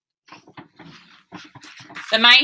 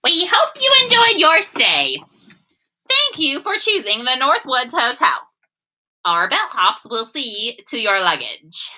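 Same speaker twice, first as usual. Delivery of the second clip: high, bright-eyed hotel welcome, louder; goose bellhop voice; 6 semitones higher, 4 dB louder than usual. Acted. Geese welcoming the turtles to the hotel, high and chirpy. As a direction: sing out a cheery hotel greeting.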